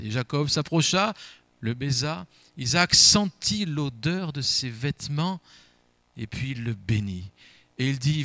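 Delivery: measured Bible reading to the congregation; a preacher reads Isaac's blessing to the church, solemn and measured; scripture reading. Acted. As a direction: read the passage with solemn weight. Reads Genesis aloud in church.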